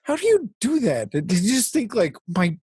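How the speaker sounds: high-pitched, hammed-up film quote; mock crying coach. Clueless hero asking a crying woman, mock tearful. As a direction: pitch it high and drag out the sad line. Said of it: "she's crying and he's like".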